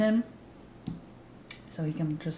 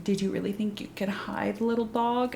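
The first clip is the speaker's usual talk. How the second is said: higher, hushed mock-menacing voice; cryptic taunt; 3 semitones higher, 3 dB quieter than usual. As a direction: imitate a knowing, mysterious tease, fading into a whisper. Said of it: "says some cryptic shit like".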